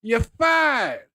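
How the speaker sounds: high shouted drill sergeant barking orders. Retold or imitated. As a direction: yell it like a strict drill sergeant. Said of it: "sounds like a goddamn drill sergeant".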